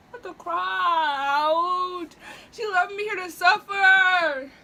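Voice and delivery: slow, drawn-out crying whine; whining. Real, not acted. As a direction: moan at being left to suffer. Suffering from spice.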